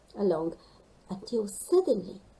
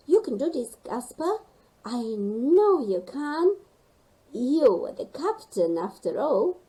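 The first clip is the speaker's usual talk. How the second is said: louder, heartening pep talk; encouraging; 3 semitones higher, 5 dB louder than usual. Acted. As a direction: cheer the scared friend on. Rosie encouraging Gasper.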